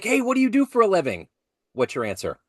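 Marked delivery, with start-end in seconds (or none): 0.0-1.3 higher, bright pretend child asking; curious kid. Pretend third grader on career day asks the guest, curious child voice. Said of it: "and they're like".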